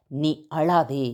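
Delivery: "நீ அழாதே" slow and low, "அழாதே" drawn out softly; tender divine command. Acted. God consoling those in tears, slow and tender. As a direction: speak it gently as God comforting. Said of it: "தெய்வம் சொல்லுகிறார்".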